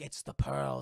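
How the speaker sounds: hushed whisper of recognition. Retold or imitated. Johnny Depp at the cell window recognising the ship, whispered. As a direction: breathe it, awed and hushed.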